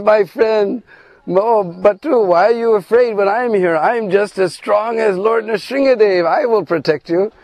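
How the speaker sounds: high, proud and bragging; boastful Krishna. Retold or imitated. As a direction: puff up to reassure a scared friend. Krishna boasts to frightened friend.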